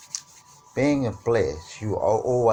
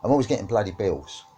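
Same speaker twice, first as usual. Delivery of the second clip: mock complaining; 6 dB louder than usual. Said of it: "In the statement saying".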